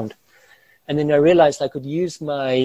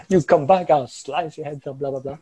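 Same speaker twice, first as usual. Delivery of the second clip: swashbuckling Johnny Depp. Retold or imitated. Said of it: "still standing there like Johnny Depp".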